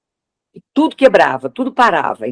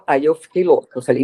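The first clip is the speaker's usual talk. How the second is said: usual speaking voice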